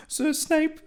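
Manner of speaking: put-on a squeaky boy's voice, way up high; high squeaky Harry. Harry calls out to Snape, high and squeaky. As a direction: pitch it way up like a startled kid.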